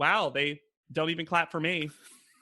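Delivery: bitter, sour, muttered aside. Retelling what Mister J said about the clapping: imitating a bitter remark. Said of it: "gives this real bitter".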